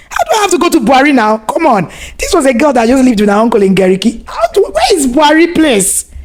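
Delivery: high, fast, panicky retelling; retold panic. Wife retelling her posting, in high panic. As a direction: relive the shock of the far posting.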